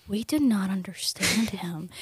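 whispered, low and soft; whispered complaint. Retold or imitated. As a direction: whisper it like a secret complaint to the teachers. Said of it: "we were like".

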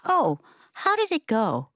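a hint of a curious little boy; three-year-old grandson. Grandson follows up on grandma's meeting, lightly childlike. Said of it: "He said".

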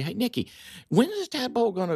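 high, quick, eager asking; excited question. Retold or imitated. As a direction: ask it high and fast, eager. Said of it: "we say".

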